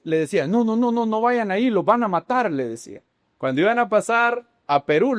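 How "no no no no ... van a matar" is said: higher-pitched imitated warning; mildly acted urgent plea not to go; alarmed warning. Locals warning the travellers, mildly alarmed.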